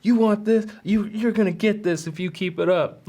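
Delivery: principal threatening. Retold or imitated. Principal warning the kid, hammed-up threat. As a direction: wave the paddle and threaten. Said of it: "He's like".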